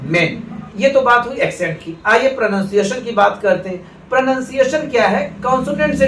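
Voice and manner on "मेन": मेन with a short 'e', as in English men; short vowel men. Shown as a demonstration. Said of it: "accent बदल जा". (मेन में छोटा 'ए')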